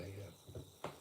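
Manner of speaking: quiet flat yeah; barely voiced yeah; quiet acknowledging yeah; soft yeah. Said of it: "I just go".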